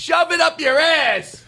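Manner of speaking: high, drawn-out mock-furious yell; hammed-up angry climax; put-on anger. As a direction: stretch it out in fake outrage. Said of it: "making this sort of anger up".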